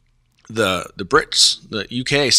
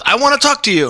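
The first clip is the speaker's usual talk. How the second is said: imitating Harry; 13 semitones higher, 4 dB louder than usual. Harry's line retold.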